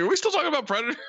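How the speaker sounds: squeaky high baffled question; baffled squeak. Retold or imitated. Charlie Day asks about Predator, high and baffled. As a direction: jump way up in pitch, baffled. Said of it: "He's like".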